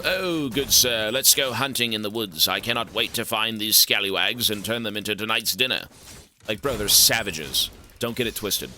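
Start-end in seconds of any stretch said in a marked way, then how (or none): 0.0-5.9 lightly voiced genteel gentleman, slowed start; a hint of a refined huntsman; mock posh orc. Streamer mocking genteel orcs in a light posh voice. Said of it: "Orcs are not, you know".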